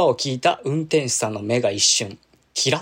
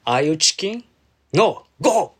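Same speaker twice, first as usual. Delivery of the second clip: goading devil voice; 4 semitones higher, slower than usual. Retold or imitated. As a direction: tempt her like a little devil. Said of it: "悪魔の林さんは".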